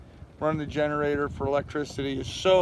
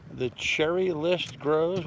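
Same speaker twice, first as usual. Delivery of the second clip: slow puzzled reading; much slower than usual. Real, not acted. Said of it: "What does that mean".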